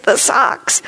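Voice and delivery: put-on high, triumphant toddler cry; the toddler rediscovers his socks, crowing in triumph; triumphant scream. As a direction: crow it out like a small boy who found his socks again. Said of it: "he screamed in triumph".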